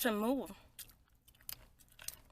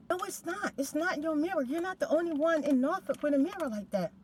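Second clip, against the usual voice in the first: higher, louder defiant denial; heated denial; 6 semitones higher, 4 dB louder than usual. Retold or imitated. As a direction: brush off the accusation loudly. Neighbour's denial acted out.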